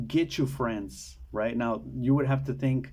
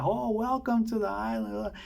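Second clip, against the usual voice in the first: high-pitched mock Australian accent; put-on Australian welcome, much higher; 9 semitones higher than usual. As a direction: imitate an Australian host, voice pitched way up. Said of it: "in an Australian accent".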